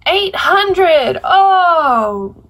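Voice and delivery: loud shocked exclamation, pitch jumps up. Real, not acted. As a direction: gasp it out in disbelief. Shocked at the page count.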